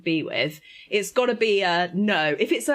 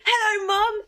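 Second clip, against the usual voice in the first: enthusiastic greeting; 13 semitones higher, 4 dB louder than usual. Retold or imitated.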